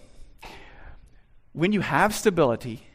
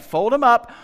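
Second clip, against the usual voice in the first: louder, higher rallying call; rallying command; 6 semitones higher, 9 dB louder than usual. Acted. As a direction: call the people to move. Command from God voiced.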